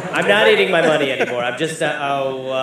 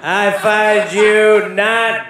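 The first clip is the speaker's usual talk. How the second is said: put-on slow drunk judge; 2 semitones higher, 5 dB louder, much slower than usual. Judge Boozy skit.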